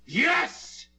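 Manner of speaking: high frantic admission; manic. Acted. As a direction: crack into madness. Killer admits murder.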